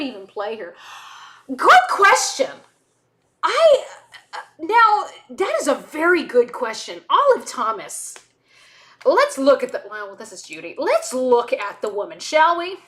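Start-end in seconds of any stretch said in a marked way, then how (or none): 1.5-9.8 put-on playful British accent, starting high and loud. Answering who would play her, playful British accent. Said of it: "Sorry, British comes out". 10.8-12.8 put-on playful British accent. Looking for a picture of Olive Thomas, playful British accent. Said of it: "Sorry, British comes out".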